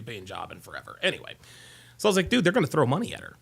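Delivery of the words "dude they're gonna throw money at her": quick throwaway. Retold or imitated. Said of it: "And she's like".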